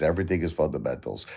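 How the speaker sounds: scornful quick aside mimicking Marantz; mocking Marantz. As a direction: toss off his line like a dismissive imitation. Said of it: "That's what he thinks".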